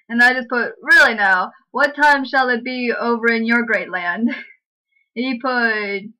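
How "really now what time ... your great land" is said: louder, chirpy fake British small talk; mock British accent. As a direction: lay the posh Brit on thick. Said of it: "How's that British?".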